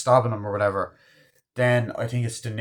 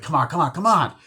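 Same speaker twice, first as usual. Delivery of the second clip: raised, loud pleading; retold urging; 6 semitones higher, 6 dB louder than usual. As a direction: imitate breaking up a fight, urgently. Acted pulling apart a fight.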